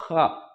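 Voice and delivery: खा said softly with friction, like श; rubbed kha. Shown as a demonstration. Teacher to class, showing खा is read with friction. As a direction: breathe खा out with friction, no throat stop. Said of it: "तेजी से इसमें रगड़ हुए आवाज निकालनी है".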